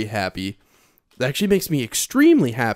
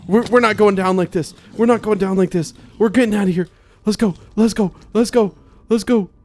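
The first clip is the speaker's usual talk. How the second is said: high, loud pumped-up rally; fired-up rally; 7 semitones higher, 4 dB louder than usual. Real, not acted. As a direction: psych yourself up to escape. Rallying to escape.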